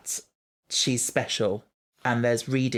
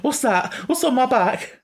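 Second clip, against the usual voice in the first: whispering; 11 semitones higher, 4 dB louder than usual. Pretend. Mock spooky whisper.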